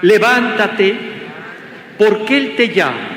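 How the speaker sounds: firm prompts, leaving room to repeat; call and response. Shown as a demonstration. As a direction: lead a congregation phrase by phrase, long pauses. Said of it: "Repitan conmigo". (frase por frase, para que repitan)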